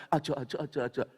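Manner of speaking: Tegal "aja, aja" said calmly, in an ordinary voice; a plain demo of Tegal Javanese "aja"; Tegal dialect. Shown as a demonstration. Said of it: "Ya tahu orang Tegal bilang".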